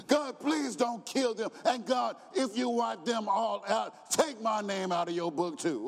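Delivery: high shouted plea to God; begging. Retold or imitated. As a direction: beg for the people's lives. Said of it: "He begged God".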